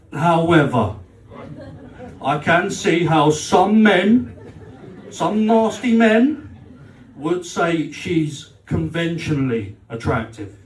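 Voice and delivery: slow, deliberately measured wording; slow, careful. Retold or imitated. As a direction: tread very carefully.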